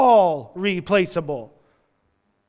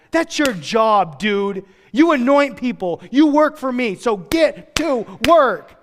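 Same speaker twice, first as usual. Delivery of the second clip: stern rebuke; 4 semitones higher, slower than usual. Retold or imitated. God scolding Elijah.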